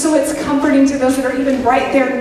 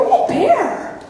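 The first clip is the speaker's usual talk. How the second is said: mock delighted; 10 semitones higher than usual. Mocks fascination with danger.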